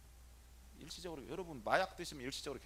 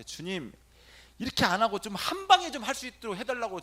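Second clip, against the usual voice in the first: mock plea; 8 semitones higher, 9 dB louder than usual. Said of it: "주님한테".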